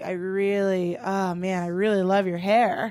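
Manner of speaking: put-on low, softened drunk man's gushing; drunk admirer. Drunk stranger admires a woman's hair at a restaurant, low tipsy gushing. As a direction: play a drunk guy dwelling on a compliment. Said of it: "he was really drunk".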